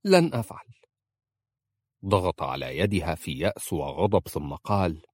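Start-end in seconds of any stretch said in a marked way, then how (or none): 0.0-0.7 high, loud, final refusal; firm refusal. A narrator's reading. Wife refuses her husband, high and loud. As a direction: she refuses flatly, raising her voice. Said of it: "قالت في حسم".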